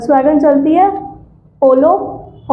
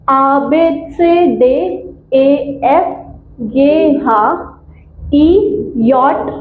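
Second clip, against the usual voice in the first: slow, paced German letter recital; alphabet recitation tone; much slower than usual. Shown as a demonstration. Teacher repeating the alphabet for students, recitation tone. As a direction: recite the letters in measured groups. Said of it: "we learn it in the tone".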